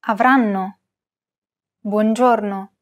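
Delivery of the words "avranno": Avranno with "ran" a touch longer and louder; slight stress. Shown as a demonstration. Teacher showing the light penultimate stress in Avranno. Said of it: "pronounce this a tiny, tiny bit longer and louder".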